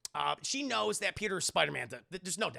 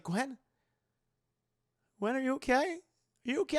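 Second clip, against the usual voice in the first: panicked calling; 9 semitones higher, 4 dB louder than usual. Retold or imitated. Peter finds Gwen not moving.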